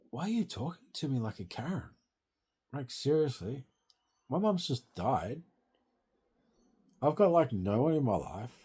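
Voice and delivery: upset pleading. Retold or imitated. Retelling his reply to the Karen.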